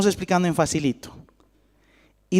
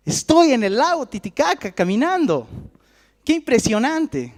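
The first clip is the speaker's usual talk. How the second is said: high, swooping voice of wonder; acted amazement; 7 semitones higher than usual. Peter finding himself walking on the lake, acted amazement. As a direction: marvel aloud, pitch soaring. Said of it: "y dijo".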